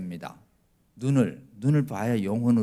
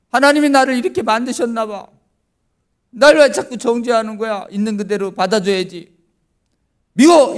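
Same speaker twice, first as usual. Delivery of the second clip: tearful plea; 9 semitones higher, 8 dB louder than usual. Retold or imitated. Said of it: "눈물을 철철 흘리면서".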